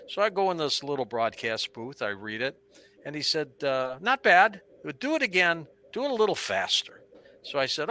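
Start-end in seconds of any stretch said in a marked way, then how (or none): 4.0-7.0 loud, higher news director giving orders; loud boss voice. Retold or imitated. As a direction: bark out the note like a demanding boss.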